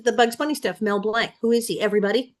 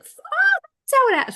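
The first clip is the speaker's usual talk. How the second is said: mock realization; 5 dB louder than usual. Child realizing how cartoons work.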